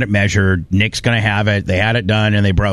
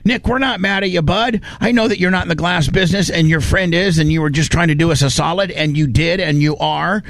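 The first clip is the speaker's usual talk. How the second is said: sincere appeal; 5 semitones higher than usual. Real, not acted. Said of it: "I wanna make sure that I say this with all due respect".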